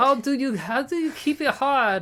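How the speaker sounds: bad put-on German accent, very high, loud. Reading out someone's question, the speaker puts on a bad German accent. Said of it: "this is a terrible German accent".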